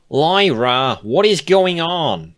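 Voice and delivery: anxious plea for answers; nervous. Acted. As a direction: Bon Bon asking Lyra, nervous about the guard. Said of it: "looking a bit nervous now".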